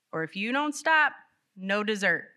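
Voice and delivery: hammed-up dessert threat; threatening parent. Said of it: "old phrases".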